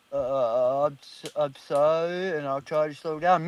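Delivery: mimicked halting, sheepish apology. Storyteller imitates the truck driver apologizing, mock sheepish. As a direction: stammer out a slow, mock apology.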